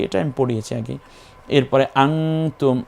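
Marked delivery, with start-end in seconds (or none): 1.9-2.8 আংতুম with the ng held before তুম; ikhfa nasal hold. Shown as a demonstration. Teacher shows the ikhfa rule, nasal held in আংতুম. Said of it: "এখানে ইকফা হবে".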